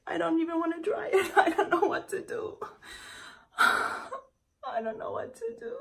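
laughing helplessly through the words; despairing giggle breaking into the lines; nervous laugh. Real, not acted. Telling viewers she can't even dry it, laughing nervously.

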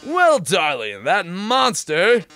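slow, hammy dramatic reveal; theatrical villain host. Acted. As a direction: drag out the big reveal. Robot host taunting.

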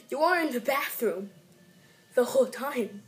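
steady, fuller retake with stress on the whole time. Acted. Kid retaking the bathroom line, fuller and steadier. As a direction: say it out, no fade at the end.

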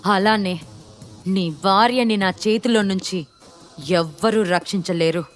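understated furious threat; mild angry yell. Acted. Gentil daring Shiva to kill him, restrained angry yell. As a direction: dare him angrily, without a full shout. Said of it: "గట్టిగా అరుస్తూ అన్నాడు".

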